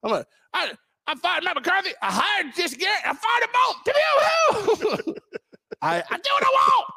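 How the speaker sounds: high, shouted mock boss bragging; owner impression. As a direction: play the reckless owner firing everyone, hammed-up. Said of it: "owner voice continued".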